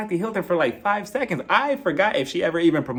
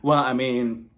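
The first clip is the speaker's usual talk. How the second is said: low, hesitant impression, softening toward the end; Crystal; 6 semitones lower than usual. Crystal suggests giving up the earrings, low and tentative. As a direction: lower the voice into a halting, subdued imitation. Voicing Crystal pushing the point.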